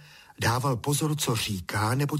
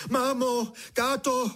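high, slow, crying scream for mum and dad; boy doused with cold water, shrieking for help; 14 semitones higher, slower than usual. A narrator's reading. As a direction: cry out in sudden shock. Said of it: "křičel, co mu hrdlo stačilo".

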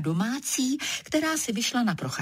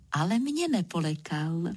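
usual speaking voice

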